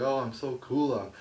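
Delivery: lightly voiced smug entertainer; a hint of a preening showman; mocking Adam Rose's gimmick.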